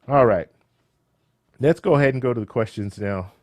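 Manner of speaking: strained, tiring voice; losing voice. Real, not acted. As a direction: voice wearing out, a bit hoarse. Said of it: "I'm losing my voice".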